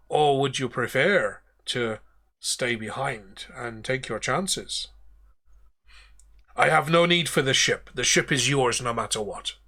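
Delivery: put-on captain's voice losing its accent; accent sliding away from Davy Jones; slipped accent. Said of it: "I've changed my accent from Davy Jones there".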